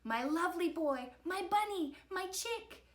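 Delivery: high, doting call. A narrator's reading. Mom to her captured boy, calling out. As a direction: call pet names with rising pitch. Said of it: "called Mom".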